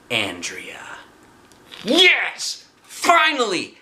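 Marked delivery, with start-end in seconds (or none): 1.8-3.8 very high, loud whoop; thrilled cheer. A narrator's reading. Arlo cheering that fighting time has come. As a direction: celebrate at last.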